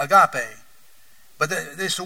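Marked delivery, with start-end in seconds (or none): 0.0-0.6 agape in an East Tennessee accent. Shown as a demonstration. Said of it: "In our East Tennessee accent, we say".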